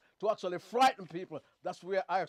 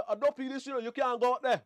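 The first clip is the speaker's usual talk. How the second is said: lightly put-on Caribbean accent, a touch higher; mock slave master warning; 3 semitones higher, 3 dB louder than usual. Host voicing a slave master scaring slaves, in a light Caribbean accent. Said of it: "That's me talking like that".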